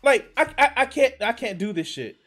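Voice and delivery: high, loud exasperated outburst; furious disbelief, voice way up and loud; outraged rant. Real, not acted. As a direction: explode in disbelief and keep pushing. Outraged rant at feminism claim.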